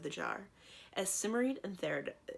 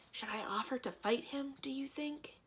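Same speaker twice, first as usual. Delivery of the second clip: lowered voice; 8 semitones higher than usual. A narrator's reading. Thranduil asks Cimmerian about fighting, hushed whisper. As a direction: whisper so the djinn can't hear. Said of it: "Thranduil lowered his voice".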